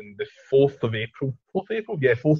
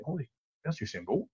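starstruck; 3 semitones higher, 11 dB quieter than usual. Retold or imitated. Starstruck at seeing Bolt.

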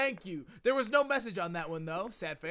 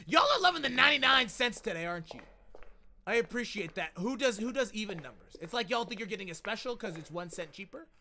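normal talking voice

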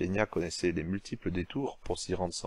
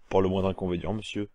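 declaiming; 3 dB louder than usual. Acted. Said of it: "Puis il déclama".

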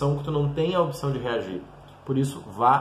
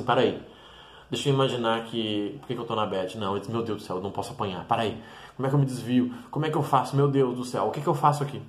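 mock panic; 3 semitones lower, faster than usual. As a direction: fret under your breath about getting beaten. Brain panicking before a fight.

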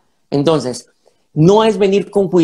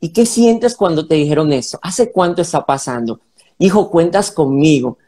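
calm, tender father talking to his son; calm parent. Shown as a demonstration. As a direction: reassure the child without rushing. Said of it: "Número uno, la calma".

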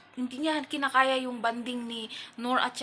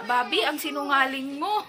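laughing mock accusation; 3 semitones higher, 4 dB louder than usual. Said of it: "Yung dederechohin ka na".

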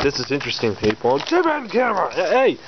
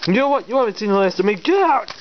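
sputtering foiled villain; 3 semitones higher than usual. Acted. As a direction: vow revenge like a beaten villain. Foiled villain's parting threat.

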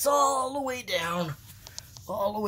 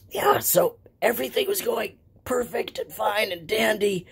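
voiceless whisper; lost voice whisper. Real, not acted.

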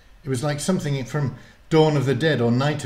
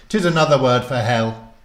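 put-on loud, higher grand old warlock; 4 semitones higher, 9 dB louder than usual. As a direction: announce himself with old-world pomp. Murden speaks in story.

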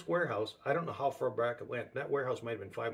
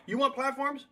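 much higher and louder, insistent; emphatic divine challenge; 13 semitones higher, 6 dB louder than usual. Retold or imitated. The Lord repeating his offer, higher and louder. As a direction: press it home like a dare. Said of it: "So he'd said".

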